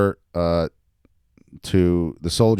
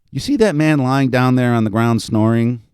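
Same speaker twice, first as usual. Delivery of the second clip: animated reading of a story; story narration; 4 dB louder than usual. A narrator's reading. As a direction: read it out to an audience with lively emphasis. Author reads own story aloud.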